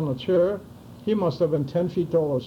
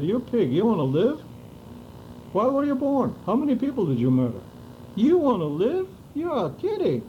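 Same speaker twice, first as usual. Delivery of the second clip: retold furious scorn, pitched high; angry; 5 semitones higher than usual. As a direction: spit the words at him in contempt. Confronting the begging Nazi.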